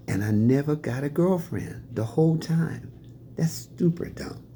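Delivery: high soft whisper, self-mocking; wry aside. Real, not acted. Telling the audience his regret, a high whispered self-mocking aside. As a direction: whisper it like a guilty joke.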